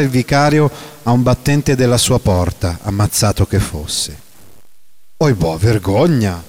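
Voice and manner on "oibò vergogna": slow, shocked cry of disgust; horrified outburst. A narrator's reading. Renzo recoiling from the crowd's cruelty, horrified. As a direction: recoil in horror at the words. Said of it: "scappò fuori Renzo, inorridito".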